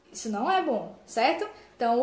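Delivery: ordinary delivery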